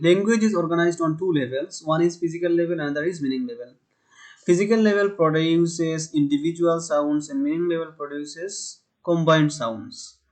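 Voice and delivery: very slow, deliberate English definition; slow dictation reading. Shown as a demonstration. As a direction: read it out word by word for students to copy. Reads English definition aloud.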